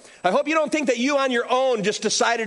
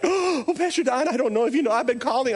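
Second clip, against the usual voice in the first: higher, startled gush; startled teacher; 4 semitones higher than usual. Retold or imitated. Teacher surprised to see the pastor in the lounge, startled. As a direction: gasp into a nervous greeting.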